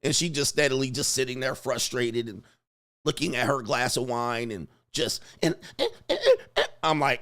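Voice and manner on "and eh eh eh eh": high mock whimpering eh; high whiny eh noises. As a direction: squeak out little frustrated ehs. Imitating woman's frustrated noises.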